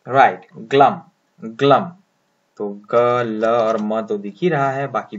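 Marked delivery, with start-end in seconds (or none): 0.6-1.8 ग्लम said glum, short u; model pronunciation. Shown as a demonstration. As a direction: say ग्लम clearly with short vowel. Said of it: "pronounce करें". (ग्लम का साफ़ उच्चारण)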